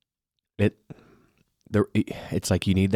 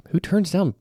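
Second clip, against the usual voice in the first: whispering; 10 semitones higher than usual. Real, not acted. Hushed aside about rude guests.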